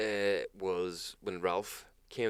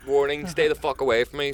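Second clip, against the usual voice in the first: rattlesnake voice; 7 semitones higher, 10 dB louder than usual. Retold or imitated. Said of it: "Mate, it's rattlesnake".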